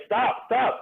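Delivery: high-pitched mock plea; retold protest. Bouncer begging colleagues to stop choking a man, retold protest. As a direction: cry it out high, imitating your alarm.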